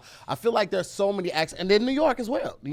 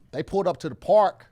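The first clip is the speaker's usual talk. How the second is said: LA accent; 4 semitones higher, 4 dB louder than usual. Shown as a demonstration. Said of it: "Give me an example".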